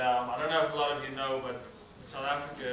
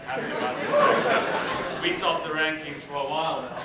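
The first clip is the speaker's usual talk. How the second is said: laughing through the words; a chuckle over the rivalry; 2 semitones higher, 8 dB louder than usual. Real, not acted. Teasing her Indian classmates about cricket, laughing.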